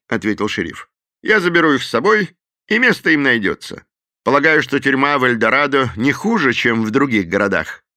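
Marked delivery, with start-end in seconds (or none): 1.2-7.8 much higher, louder sheriff voice; an easygoing lawman who takes charge; confident sheriff, pitched high. A narrator's reading.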